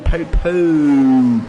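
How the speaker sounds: stumbling stutter on the word; tripping over the first syllable. Real, not acted. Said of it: "Speak like a normal person".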